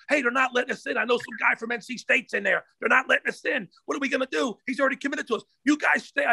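imitating a worked-up caller; agitated phone report. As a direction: mimic rattled recruiters reporting back. Voices recruiters phoning their coach.

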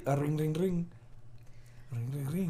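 light spoken ring-ring; imitated phone ring. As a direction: pretend to be a ringing phone. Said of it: "I'm gonna call you right now".

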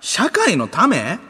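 a touch of a threatening thug; lightly hammed-up Osaka threat; mock angry rant. Voicing angry Banksy scolder.

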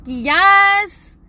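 high, loud cheer of yes; excited yes. Acted. Bored parent accepts son's invitation, excited cheer. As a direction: whoop it out, thrilled.

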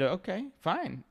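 husband retells his easy reply; agreeable okay fine. Retold or imitated. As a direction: let it go, drawn out. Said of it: "But then I said".

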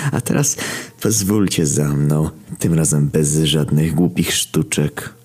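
slow, deliberate villain command; menacing villain. Acted. Villain leading captives away, unhurried menace. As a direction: usher them along, drawing out the words. Villain orders heroes along.

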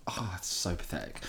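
unvoiced, soft whisper. Real, not acted. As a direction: mutter it under your breath. Aside under breath after failing.

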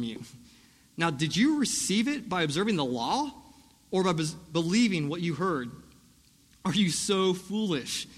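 slow, pointed rebuke read aloud; mildly sarcastic questioning, stretched for emphasis; a little sarcastic. Retold or imitated. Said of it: "he almost gets a little sarcastic".

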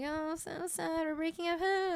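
slow, a hint of sarcastic pity; mock pity. Boyfriend giggling at his crying girlfriend, slow mocking pity. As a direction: draw it out like a teasing boyfriend. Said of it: "He's like".

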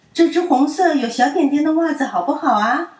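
high, loud coaxing question; coaxing child. A narrator's reading. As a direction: coax a grumpy friend. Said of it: "淘淘问". (哄着问)

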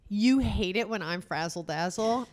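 ordinary talk

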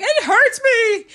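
fake-cry it like a self-pitying man; mock male tears. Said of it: "with those male Karen tears".

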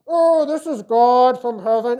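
slow, loud mock voice of God through a cheap speaker; tinny small-speaker God voice. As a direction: boom it like a weak little PA system. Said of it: "kind of constrained, limited from some small speaker".

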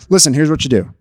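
low, matter-of-fact guy-to-guy advice; acted low-voiced practical dude; men advising men. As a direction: reel off fixes like a buddy. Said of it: "that's what men want when they're".

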